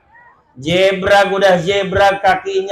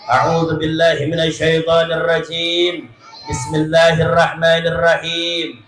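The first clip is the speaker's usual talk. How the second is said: even, measured chanted prayer; Arabic recitation. Acted. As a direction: recite the opening verses steadily.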